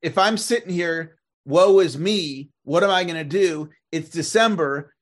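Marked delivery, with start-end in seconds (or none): 1.5-4.9 mock self-pity. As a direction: parody a moping agent feeling sorry for himself. Struggling agent's self-pity voiced.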